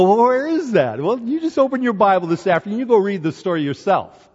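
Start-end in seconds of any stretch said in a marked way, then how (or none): 0.0-1.0 high, loud mock question; mock congregation. Preacher mocking congregation asking where it is, high and loud. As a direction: tease the listeners. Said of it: "y'all gonna go".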